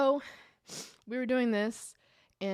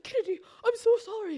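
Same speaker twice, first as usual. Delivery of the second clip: high, louder mock German-accented apology; gushing apology in a put-on German accent; 13 semitones higher, 5 dB louder than usual. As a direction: imitate a German teammate apologizing in her accent. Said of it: "'Cause she's in that accent".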